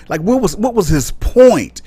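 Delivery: high, incredulous question; baffled. Real, not acted. Vlogger baffled by Herschel Walker's clip, high incredulous question.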